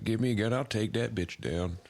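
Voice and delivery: mock fired-up vigilante; hammed-up gung-ho crank; nut job. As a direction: imitate a riled-up redneck volunteer. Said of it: "all the nut jobs and shit".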